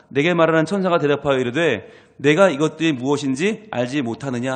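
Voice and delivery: 성경 봉독하듯 또박또박; scripture reading. Acted. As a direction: read the verse out with weight. Reads scripture aloud. (성경 낭독하듯)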